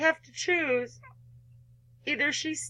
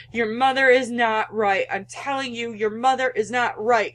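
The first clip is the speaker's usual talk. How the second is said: louder, firm insistence; insistent; 4 dB louder than usual. Real, not acted. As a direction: convince her she's wrong. Player urges the girl on screen.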